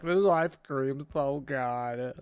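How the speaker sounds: slow, drawn-out mock bliss; blissful ice cream eater. Imagined man in a bathtub, slow mock bliss. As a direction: savor every word like a dreamy treat. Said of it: "picturing him in his bathtub being like".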